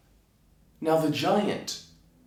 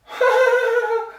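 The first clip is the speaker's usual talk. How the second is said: loud, high-pitched tailor laugh; uneasy giggle to humour a giant; high put-on laugh; 6 dB louder than usual. Tailor reacts nervously to the giant.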